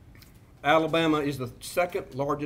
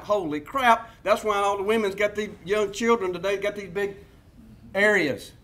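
mock panicked consumer; 3 semitones higher than usual. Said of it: "I know y'all are freaking out".

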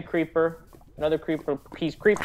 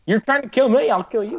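playful fake rage, louder; raised voice, pretend fury; mock angry yell; 7 semitones higher, 5 dB louder than usual. Playful mock threat at friend.

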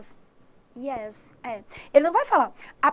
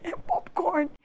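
laughing through the punchline; 5 semitones higher, 7 dB louder than usual. Real, not acted. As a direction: chuckle out the answer, amused at yourself. Laughs at own drawing.

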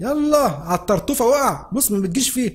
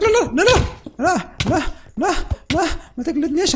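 panicked pleading; 8 semitones higher than usual. Real, not acted. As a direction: beg not to be hit. Begging enemy not to hit.

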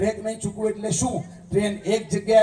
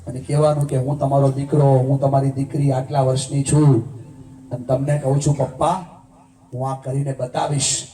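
emotional preaching; 6 semitones lower than usual. Acted. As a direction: pour your heart into the vow as you preach it. Emotional vow preached over music.

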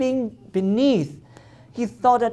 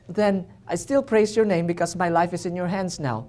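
surrendering prayer; 3 dB quieter than usual. Retold or imitated. Retold prayer of surrender to God.

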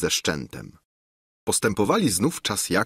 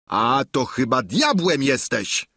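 angry; 4 semitones higher than usual. Acted. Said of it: "rzecze rozgniewany Sancho".

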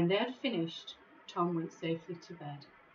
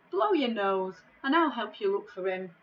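bossy comfort; 5 dB louder than usual. Acted. Tom comforts giant.

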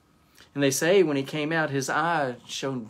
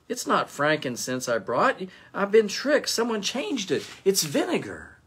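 indignant outrage; 7 semitones higher than usual. Acted. Melchior finds he was tricked.

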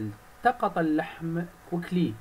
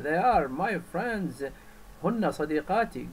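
mild angry bird; 3 semitones higher than usual. Acted. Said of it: "said the bird angrily".

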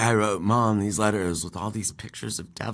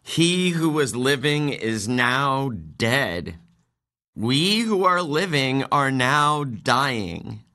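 reading a title aloud; slower than usual. Shown as a demonstration. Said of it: "this title sucks".

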